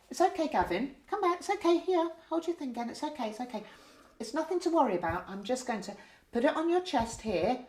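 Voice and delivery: calm a frightened patient gently; reassuring. Shown as a demonstration. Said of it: "what I need to then do is reassure".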